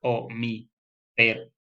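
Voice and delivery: very slow, pérdida drawn out; scanning the verse. Shown as a demonstration. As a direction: stretch each syllable to count them. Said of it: "Entonces, a-, te".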